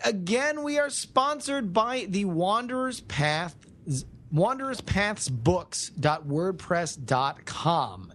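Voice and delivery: measured podcast ad read, slowing on the web address; deliberate, spelled-out sponsor plug. Acted. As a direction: read it out like an announcer. Reads the sponsor message.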